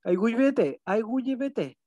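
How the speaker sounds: Aigüeyvete with the stress falling at the end; saying thanks in Guaraní. Shown as a demonstration. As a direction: spell out Aigüeyvete clearly. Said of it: "muchas gracias, ¿cómo dice?".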